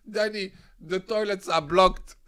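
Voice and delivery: slow whiny cellmate. Retold or imitated. Cellmate telling him at dawn, slow whiny plea. Cellmate reports blocked toilet.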